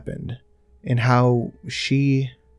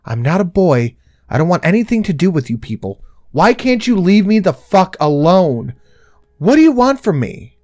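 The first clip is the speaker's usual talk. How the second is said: louder and higher with each line, screaming; frustrated scream; 6 semitones higher, 8 dB louder than usual. Retold or imitated. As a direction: let it all out at her. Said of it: "express all of this frustration and scream".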